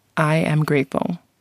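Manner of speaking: ordinary talk, nothing marked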